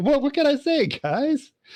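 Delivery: very high, sheepish, drawn-out voice. Speaking in character to the group after being caught out: sheepish caught-criminal voice. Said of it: "like a two bit criminal and uh, caught caught by the cops".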